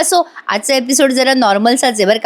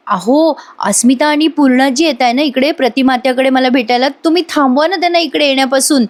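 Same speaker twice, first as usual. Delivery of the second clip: pleading, higher acted voice; Sayali; 4 semitones higher than usual. Wife phoning husband to stop visitors, pleading. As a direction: urge him anxiously to step in.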